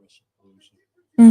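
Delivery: high, loud hype name; hyped announcer. Real, not acted. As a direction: announce it like a big event. Hype name after searching for it.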